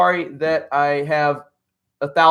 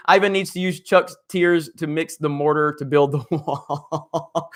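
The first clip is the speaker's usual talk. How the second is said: laughing. Real, not acted. Reading funny super chat aloud.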